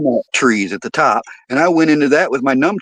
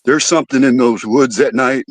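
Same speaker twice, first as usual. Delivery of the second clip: spooked guy; 4 semitones lower than usual. Retold or imitated. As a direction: hush it down like a secret. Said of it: "He says".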